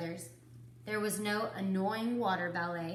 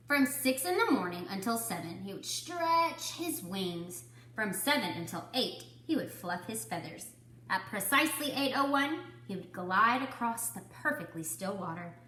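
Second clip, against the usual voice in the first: put-on reading to children. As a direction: clear storybook read-aloud. Teacher reads picture book aloud.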